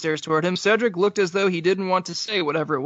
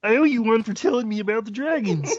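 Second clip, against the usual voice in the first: laughing mock British; 6 semitones higher than usual. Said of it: "Why is he talking about dragons".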